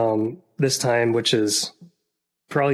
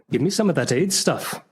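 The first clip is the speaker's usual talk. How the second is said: put-on Irish accent; 5 semitones higher than usual. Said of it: "attempt three different accents".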